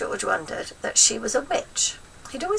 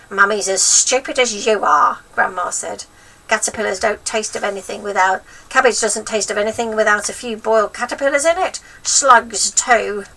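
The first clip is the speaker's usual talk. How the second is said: scornful grandma voice; 3 semitones higher, 8 dB louder than usual. A narrator's reading. Grandma mocking George's mother.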